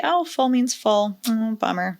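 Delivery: slow, deadpan and unbothered; no emotion. Shown as a demonstration. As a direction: say it like it doesn't matter. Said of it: "say it with no emotion whatsoever".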